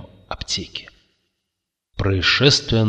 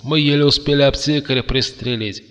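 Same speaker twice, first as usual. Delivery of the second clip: higher, protesting cry; exclaiming; 6 semitones higher than usual. A narrator's reading. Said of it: "воскликнул Кертис". (возглас возражения)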